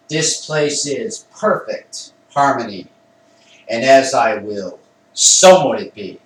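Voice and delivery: stately invocation, loud at the opening and close; emphatic incantation. Shown as a demonstration. Calling the old gods to bless an altar, emphatic incantation. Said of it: "I say it with emphasis".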